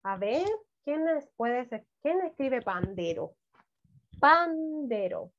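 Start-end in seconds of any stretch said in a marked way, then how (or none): 4.2-5.3 each syllable drawn out slowly; slow dictation. Shown as a demonstration. Teacher dictating again to young writers, slowly. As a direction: dictate it so kids can follow. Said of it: "comiencen escribiendo pan".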